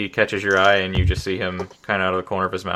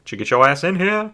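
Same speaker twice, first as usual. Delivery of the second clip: high-pitched pretend call to get inside; mock summons; 9 semitones higher than usual. Player imagines ordering Shamdar back inside, mock summons. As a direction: playfully order someone in, pitched way up. Mimes calling a character back.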